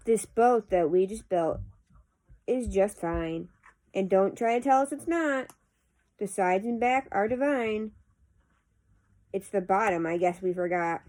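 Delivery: measured, lilting poem reading; poetry recitation. Acted. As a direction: read the verse aloud with pauses at each phrase. Reads a poem aloud.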